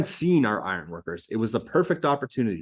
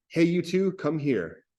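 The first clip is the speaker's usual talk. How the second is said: yelling; 5 semitones higher, slower than usual. Acted. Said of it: "goes to the Winters and yells".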